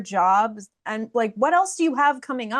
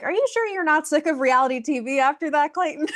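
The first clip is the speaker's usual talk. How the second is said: laughing tease; 5 semitones higher than usual. Real, not acted. Host teasing through laughter.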